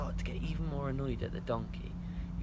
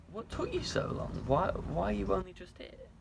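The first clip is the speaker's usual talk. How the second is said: a sudden much higher, impatient king voice; 7 semitones higher, 4 dB quieter than usual. Acted. King scolding the late Balaam, high and fussy. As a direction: play the king fussing at the late guest. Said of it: "and the king said".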